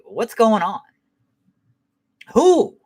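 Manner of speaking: high-pitched mock exasperation; Mad Max. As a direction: imitate a worked-up husband demanding answers. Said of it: "that dude get all mad and shit".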